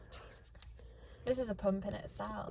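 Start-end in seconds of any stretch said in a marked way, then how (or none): 0.1-1.3 breathless whisper after straining; winded from the effort; opening a stuck jar. Real, not acted. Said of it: "I can't get the jam jar open either".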